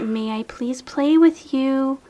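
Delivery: slow, whispered polite request; whispered plea. Acted. Mock asking to play, whispered.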